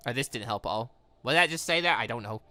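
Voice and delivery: ordinary delivery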